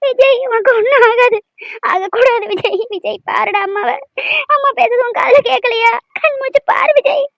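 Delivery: tearful, insistent pleading; crying. Acted. Mother calling to her unconscious son, crying. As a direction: beg him through tears to wake up. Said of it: "அழாதம்மா".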